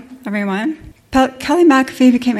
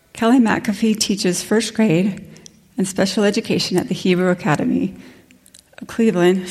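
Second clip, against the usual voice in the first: breathless, still catching her breath. Real, not acted. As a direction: speak between gasps for air. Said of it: "Sorry, I'm out of breath still".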